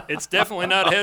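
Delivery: fast, through a burst of laughter; laughing. Real, not acted. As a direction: laugh as you fire it off.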